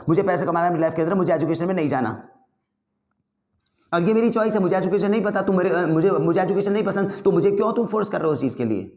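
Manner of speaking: ज़िद्दी गुस्से वाली बहस; heated arguing. Shown as a demonstration. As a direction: insist hotly like a stubborn kid. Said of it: "गुस्से से जैसे मैं बोल रहा हूँ और जल्दी जल्दी".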